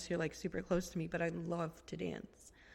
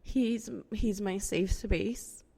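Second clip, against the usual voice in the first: getting emotional; 6 dB louder than usual. Real, not acted. Host to listeners about her husband, choked up. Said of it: "I'm getting emotional".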